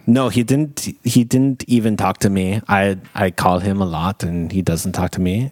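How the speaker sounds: put-on sulky German accent; hurt, in a put-on German accent. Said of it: "Your German accent's really off-putting".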